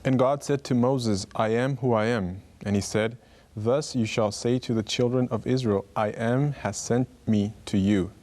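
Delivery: a solemn public reading of Exodus; scripture reading. Shown as a demonstration. Guest reads the verse aloud to the host, measured scripture reading. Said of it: "Could you read it?".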